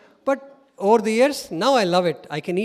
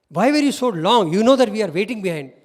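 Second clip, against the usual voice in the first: louder retold complaint; mild annoyance; 2 semitones higher, 6 dB louder than usual. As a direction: reproach him for the wait. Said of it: "some with anger".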